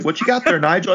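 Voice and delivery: high mock British voice; hammy British thug line. Podcaster repeating the Nigel line in British. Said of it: "I was like".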